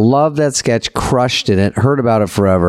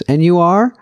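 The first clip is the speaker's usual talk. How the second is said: officious gatekeeper; 5 semitones higher than usual. Retold or imitated. Acting gatekeeping PR person.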